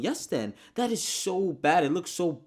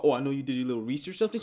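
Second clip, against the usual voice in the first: mocking quote; much faster than usual. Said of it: "You're talking about".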